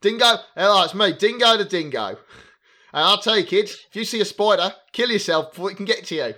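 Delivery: a cheery Australian cartoon dingo greeting the kids; Australian accent. A podcast host mocking a kids' show in a put-on Australian accent. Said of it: "That's such a beautiful Australian accent".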